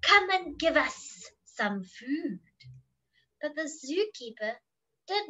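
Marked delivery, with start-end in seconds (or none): 0.0-2.4 slow snake voice with drawn-out S sounds; lightly voiced, lingering snake hiss. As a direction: stretch the esses like a hungry snake. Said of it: "hissed the snakes".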